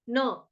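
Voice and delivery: न with a brief, short vowel. Shown as a demonstration. Teacher gives the correct syllable, short न. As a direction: cut न short, no long aa. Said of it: "ना नहीं बोलेंगे, न".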